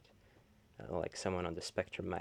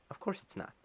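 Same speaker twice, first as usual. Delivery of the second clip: whispered aside; 11 semitones higher than usual. Real, not acted. Aside while reading the chat.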